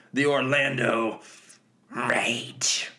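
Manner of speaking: hammed-up announcer, ending in a whisper; narration voice. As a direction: announce it big, then whisper the last word dramatically. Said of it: "my narration voice there".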